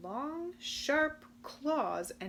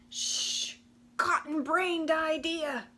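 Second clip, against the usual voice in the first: higher, louder scornful verdict; pompous pronouncement; 6 semitones higher, 5 dB louder than usual. Acted. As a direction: pronounce it like a judge. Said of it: "pronounced Rumpelstiltskin".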